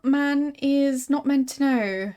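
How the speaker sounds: lightly voiced occult showman, drawn out; carried-away showman. Showman boasting of forbidden mysteries to a customer, carried away. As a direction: intone it with slow, lingering words. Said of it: "Got a little carried away there".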